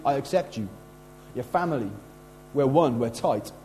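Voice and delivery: low, gentle, intimate assurance; reassuring acceptance. Acted. Host to guest at the meal table, reassuring.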